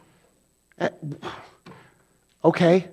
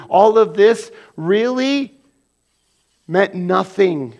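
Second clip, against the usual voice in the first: voicing Paul; 3 semitones higher, 5 dB louder than usual. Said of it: "So he says".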